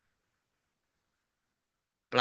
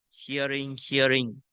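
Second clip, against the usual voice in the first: noting demo; 4 dB quieter than usual. Shown as a demonstration. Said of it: "When you note hearing".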